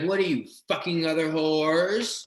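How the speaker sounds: mild mock British accusation; retold in a put-on British accent; lightly British, imitating a possessed woman; imitated British accent. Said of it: "animated into a British accent".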